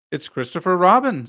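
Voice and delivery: happy recognition; eagerly. A narrator's reading. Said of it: "said Pooh eagerly".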